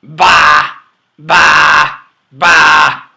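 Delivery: loud bleating baas; loud sheep bleats. Shown as a demonstration. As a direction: bleat them out for the kids. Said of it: "Can you say that?".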